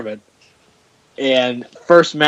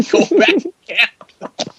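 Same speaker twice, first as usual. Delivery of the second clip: mock yell; 10 semitones higher than usual. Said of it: "he yelled".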